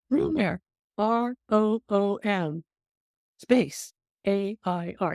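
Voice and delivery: slow, letter by letter, R O O M, space, A I R; slow spelling. Retold or imitated. Chief spelling room air to the new grad, slow letters. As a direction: spell it out slowly like the punchline.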